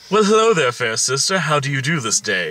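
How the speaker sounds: stagey mock-British politeness; mock British accent. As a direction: greet grandly in a put-on British accent. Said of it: "I'm out of accents".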